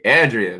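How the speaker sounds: Andrea as AN-dree-uh, loud; copying pronunciation. Retold or imitated. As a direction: hit "AN" hard in "Andrea", then "dree-uh". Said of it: "with an emphasis on the first syllable".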